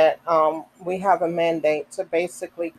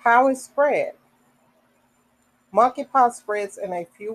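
measured read-aloud of a health notice; reading information aloud. Real, not acted. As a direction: read it out sentence by sentence, with pauses between.

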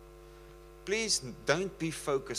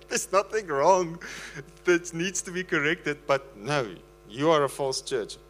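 laughing disbelief; 4 semitones higher, 6 dB louder than usual. Real, not acted. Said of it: "I can't stop laughing".

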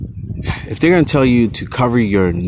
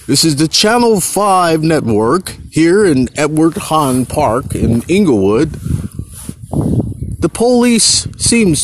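news reporter voice; 7 semitones higher than usual. Acted. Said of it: "Look, I'm like the news guy".

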